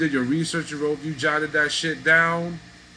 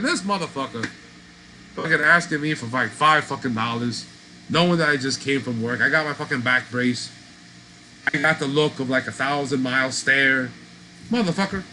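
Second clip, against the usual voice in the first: retold rant; 3 dB louder than usual. Ranting to family about beggar.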